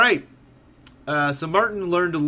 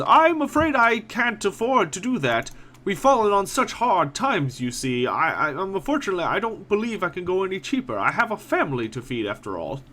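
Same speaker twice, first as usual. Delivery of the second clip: portly merchant; 5 semitones higher than usual. Acted. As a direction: play the fat worried shopkeeper pleading poverty. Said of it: "shakes his portly head, jowls a wobbling".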